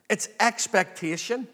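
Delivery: ordinary talk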